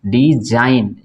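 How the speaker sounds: डिजाइन as "di-jain"; J for the S in डिजाइन, ending in N; silent G. Shown as a demonstration. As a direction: say डिजाइन carefully with no G. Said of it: "जी नहीं पढ़ेंगे इसको".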